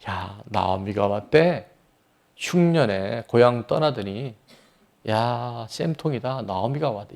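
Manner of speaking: slow, soft sneering taunt; a hint of neighbors gloating over Naomi; mocking villagers. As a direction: jeer at her under your breath. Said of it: "이렇게 지금 조롱하는 거예요".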